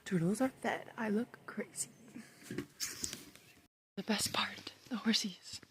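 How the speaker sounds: soft whispered aside to herself. Real, not acted. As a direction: whisper it under your breath. Aside while feeding the turtles.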